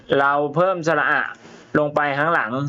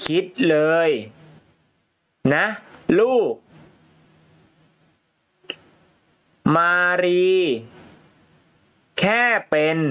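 scolding mother; 4 semitones higher than usual. Acted. Mother scolds child in story.

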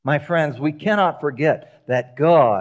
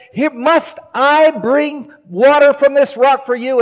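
high, loud furious rant at the people; angry Moses yelling; 7 semitones higher, 4 dB louder than usual. Retold or imitated. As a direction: blow up at the rebels. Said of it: "he just loses it".

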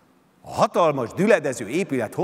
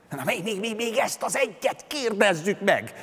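eager, higher pleading voice; pleading Prometheus; 9 semitones higher than usual. A narrator's reading. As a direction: beg for one more question. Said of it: "kérte a keselyűt Prométeusz".

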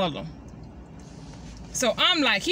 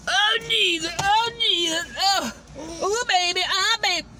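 alarmed exclamations; 5 semitones higher than usual. Real, not acted. Mother reacting to her toddler's mess, alarmed and higher.

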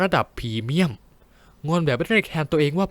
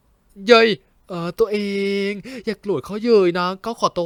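startled yelp; 6 semitones higher, 4 dB louder, slower than usual. Acted. Pleading with angry lover.

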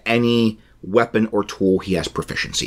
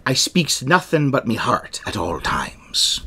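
a light, slow pirate growl; 3 semitones higher than usual. Acted. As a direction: lean into a gentle pirate. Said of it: "I'm gonna do a pirate voice".

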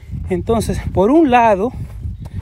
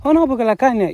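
put-on light Cibao accent; 8 semitones higher than usual. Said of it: "lo digo como leve".

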